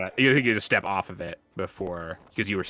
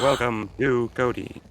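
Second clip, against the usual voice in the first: slow inhaled robot voice. Pretend. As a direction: speak while breathing in, robotic. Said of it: "That's my robot voice".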